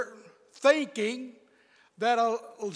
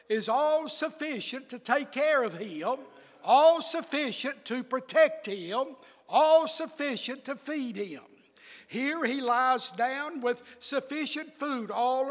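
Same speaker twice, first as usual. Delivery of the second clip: rising preacher's repetition on "all sufficient"; preaching with growing fervor; building sermon cadence; 3 semitones higher than usual. Acted. Preaching builds on repeated phrase.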